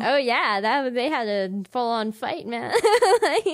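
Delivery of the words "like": loud high laugh; burst of laughter. Real, not acted. Laughing about the mom's fight, loud high laugh. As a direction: crack up loudly.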